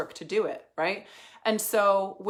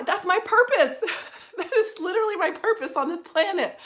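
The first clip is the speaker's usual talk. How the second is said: laughing, higher and louder declaration; 9 semitones higher, 6 dB louder than usual. Real, not acted. Coach telling listeners her life purpose, laughing. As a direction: laugh through it, delighted.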